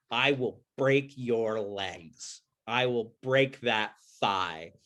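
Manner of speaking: slow, deliberate vow of revenge; slow menacing threat. Acted. Bhima vowing to Duryodhana he'll break his thigh, slow menace. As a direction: lay each word down like a promise.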